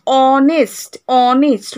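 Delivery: "অনেস্ট" said twice, starting on the vowel; silent H. Shown as a demonstration. Teacher showing our pronunciation, "অনেস্ট" with silent H. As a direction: say "অনেস্ট" clearly with the H left silent. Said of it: "আমাদের উচ্চারণ হয়".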